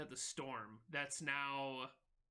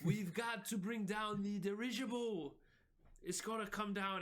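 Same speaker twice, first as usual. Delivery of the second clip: higher character voice for Izzy; Izzy's voice; 4 semitones higher than usual. Acted. Izzy tells the crew to ground the dirigible, in his higher voice. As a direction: redo it properly as the frantic sailor. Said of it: "that wasn't his voice".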